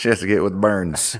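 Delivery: put-on Southern US accent. Trying out an accent on a line from the story, southern accent. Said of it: "Do you want to try the southern accent?".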